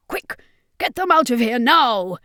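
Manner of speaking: urgent call. Acted. Circus master urging prisoners to flee.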